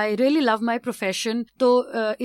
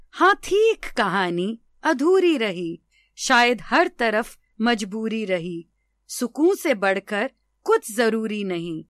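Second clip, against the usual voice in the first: measured poem reading with pauses between lines; poetry recitation. Acted. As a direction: recite each line with swooping emphasis, letting the refrain settle. (कविता पाठ, ठहर-ठहर कर)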